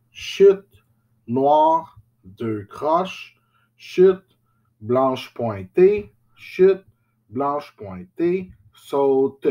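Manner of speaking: chanted rhythm names in time; rhythm syllables. Shown as a demonstration. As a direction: chant each note name on its beat, chute high. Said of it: "Donc ici, j'ai blanche".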